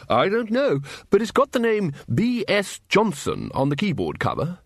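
high-pitched, swooping call over noise; hearty wizard calling back; calling Ridcully. A narrator's reading. Wizard answers Vimes amid the sonic explosion, calling.

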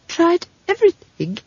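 high, halting, hopeless voice; disconsolate young man. Acted. Simon turning down Esk's cures, disconsolate. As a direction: give up on any cure. Simon despondent about his allergy.

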